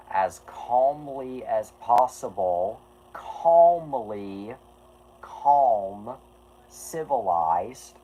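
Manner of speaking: slow, deliberate, even-tempered words; calm and slow. Real, not acted. Explaining to chat as calmly as possible, slow and deliberate. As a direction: spell it out calmly, holding back annoyance. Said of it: "and I'm saying this".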